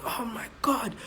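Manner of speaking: whispered, mocking oh my God; mock rant. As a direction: mimic a fed-up fan, breathy. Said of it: "that stage of ranting and going".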